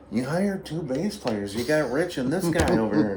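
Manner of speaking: imitating a sceptical older bandmate's objection; lightly voiced complainer. Slim complains to bandleader about hire.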